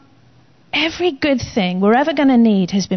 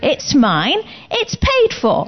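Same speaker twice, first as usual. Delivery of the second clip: possessive; 3 semitones higher, slower than usual. Retold or imitated. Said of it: "you kinda get a bit possessive".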